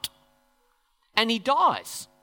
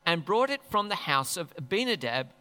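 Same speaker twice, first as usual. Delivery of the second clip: scripture reading. Acted. Preacher reading the passage to the church, measured reading voice. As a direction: read the passage steadily.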